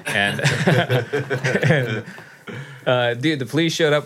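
ordinary talk

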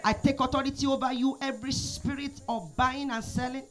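preacher praying aloud over the church, rising and falling; fervent prayer. Real, not acted. Prayer leader praying over the congregation, fervent prayer voice. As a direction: pour it out like an earnest prayer leader.

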